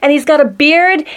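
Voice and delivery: put-on high, loud little-girl voice. Playing Kindergarten Cop girl for friends, high child voice. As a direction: pitch it way up like a child. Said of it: "Shall I do that little girl from Kindergarten Cop?".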